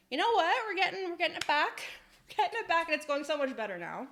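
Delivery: rally yourself with rising energy; upbeat rallying. Real, not acted. Streamer says the day is back on track, upbeat and fast. Rallying after a bad patch.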